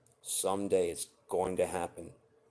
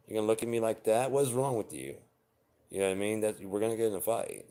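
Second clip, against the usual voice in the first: louder, higher mock argument; acted angry confrontation; 5 semitones higher, 4 dB louder, faster than usual. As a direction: confront a partner over a rude look, loud and pitched up. Imagined fight with partner.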